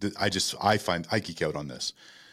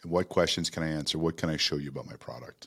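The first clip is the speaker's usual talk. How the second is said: a lightly voiced stiff salesperson, softer and dropping; flat stiff salesperson; 3 semitones lower, 5 dB quieter than usual. Imitating a stiff demo presenter to the audience, softer and flat. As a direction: mimic a static presenter stuck behind a product. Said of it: "They talk like this".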